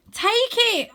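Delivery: high, loud urgent command; urgent boy voice; firm offer. A narrator's reading. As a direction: reach out, insist. Arthur reaching for sister.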